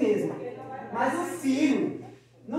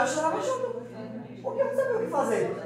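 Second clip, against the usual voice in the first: mock tearful mother; 10 semitones higher than usual. Mother crying along with baby.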